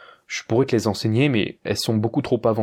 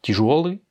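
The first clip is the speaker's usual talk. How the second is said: "Тяжёлый" raised on the middle жё; stress on yo; 4 semitones higher than usual. Shown as a demonstration. Teacher repeats the word for heavy, stressing ё. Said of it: "a son accent tonique sur le yo".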